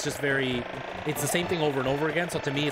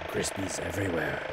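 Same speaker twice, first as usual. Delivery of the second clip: pirate voice; 8 semitones lower, 4 dB quieter than usual. Acted. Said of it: "who doesn't like doing pirate voices".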